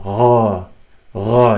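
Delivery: gha rasped at the top of the throat, like French r. Shown as a demonstration. Teacher demonstrating ghain, gha from the top of the throat. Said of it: "You can feel it here".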